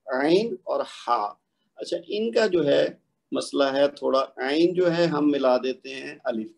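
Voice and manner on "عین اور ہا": عین and ہا slowly, each from the mid throat; throat letters demo; ain and ha demo. Shown as a demonstration. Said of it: "اگلا جو ساتواں مخرج ہے".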